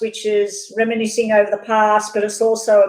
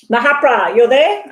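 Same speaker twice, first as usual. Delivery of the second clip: calling out; 2 semitones higher, 5 dB louder than usual. Real, not acted. Calling a viewer in chat.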